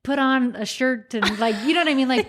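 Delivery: hammed-up complaining husband; exasperated husband. Husband's rant continues.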